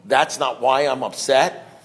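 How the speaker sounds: slow, questioning echo; slow retold double-check. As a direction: repeat it back slowly, as a question. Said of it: "And so I said to him".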